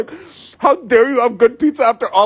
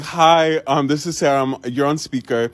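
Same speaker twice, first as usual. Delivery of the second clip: imitating the driver; 8 semitones lower than usual. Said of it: "It's like".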